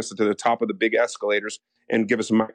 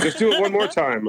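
laughing coax; 8 semitones higher than usual. Retold or imitated. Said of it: "And I'm like".

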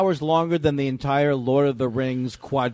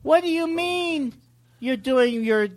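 nagging caller; 5 semitones higher, slower than usual. Retold or imitated. Imitating Todd.

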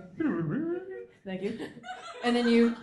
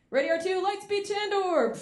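excited pilot; 8 semitones higher, 3 dB louder than usual. Retold or imitated. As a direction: draw out the launch with glee. Pilot launches light speed.

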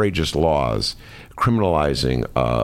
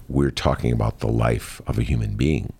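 devil's advocate voice; 5 semitones lower than usual. Pretend. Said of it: "The other side would say".

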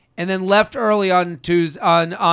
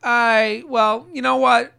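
mock cold brush-off. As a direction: pretend to cancel plans with a shrug. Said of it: "I go".

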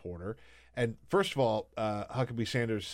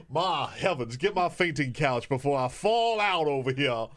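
hammed-up Southern belle swoon; Southern belle accent; 3 dB louder than usual. Cohost keeps up the Southern belle bit, mock swooning. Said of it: "in that accent".

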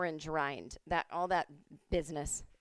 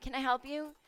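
brusque bartender; 7 semitones higher than usual. Retold or imitated. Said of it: "is like".

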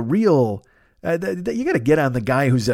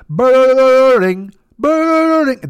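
very high, louder jaw-rattling brrrring; alien phone mimic; 11 semitones higher, 8 dB louder than usual. Shown as a demonstration. Aliens copy the phone to each other, high rattling trill. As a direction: mimic the ring with a wobbling jaw. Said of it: "I'm trying to do it".

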